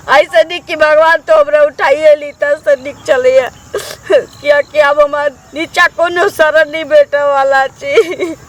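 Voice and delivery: crying widow's lament; weeping complaint to God; tearful lament. Acted. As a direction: wail over your misfortune through sobs. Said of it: "अकेली औरत यहाँ पर क्यों रो रही है?".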